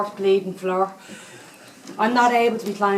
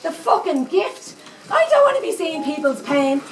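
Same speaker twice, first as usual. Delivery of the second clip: outraged disbelief; 5 semitones higher than usual. Acted. Indignant at granny's words.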